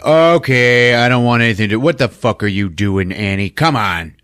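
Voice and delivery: mock exasperation at a spouse's nonsense; exasperated protest. Acted protest at the seance.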